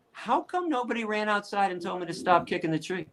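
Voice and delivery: mock-innocent sarcastic question; needling, put-on bewilderment. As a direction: feign puzzled concern, sarcastically. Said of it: "there were times when it was sarcastic".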